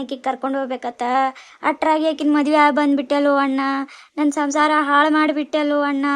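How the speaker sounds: tearful wailing at her brother; crying lament. Acted. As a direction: wail the accusation, stretching each line's end. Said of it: "Lakshmi, ಅಳಬೇಡ".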